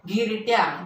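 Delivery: घिरट्या with a short, quick ghi; घिरट्या, first vowel brief. Shown as a demonstration. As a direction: say घिरट्या promptly, i not stretched. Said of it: "हाही शब्द आपण पटकन उच्चार केला".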